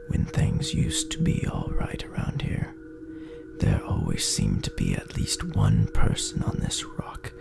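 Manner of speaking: usual speaking voice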